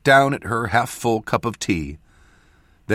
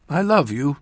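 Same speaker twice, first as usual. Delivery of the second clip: higher, tender farewell; a mother's parting endearment, voiced higher; loving mother; 8 semitones higher, 4 dB louder than usual. A narrator's reading. Mother to departing child, loving farewell.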